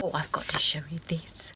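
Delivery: excited whispered aside. Real, not acted. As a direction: whisper it, eager to share. Excited aside before showing tickets.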